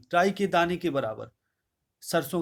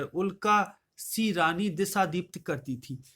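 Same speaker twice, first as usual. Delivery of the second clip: raised, measured verse recital voice; poem recitation; 2 semitones higher, slower than usual. Acted. Teacher reciting Kaikeyi's verse to the class, declaiming.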